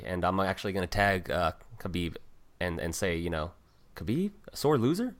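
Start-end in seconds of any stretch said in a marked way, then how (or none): 4.0-5.1 mock outrage. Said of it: "that's what Shorty Torres said".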